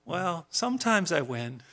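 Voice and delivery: mildly sheepish comeback. Acted. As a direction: admit it with a touch of embarrassment. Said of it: "kinda sheepishly says".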